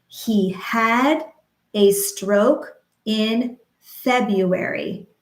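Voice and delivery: slow, syllable by syllable; slow rhythmic demo. Shown as a demonstration. Speech therapist modeling a sentence slowly, rhythmic. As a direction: model it slowly for stroke survivors. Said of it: "we could say a complete sentence".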